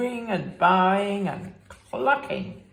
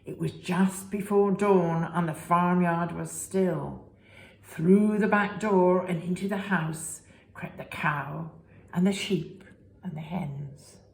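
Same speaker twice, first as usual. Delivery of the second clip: lively storybook reading voice; reading to children. A narrator's reading. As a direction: read it to little ones with big expression. Reading picture book to children.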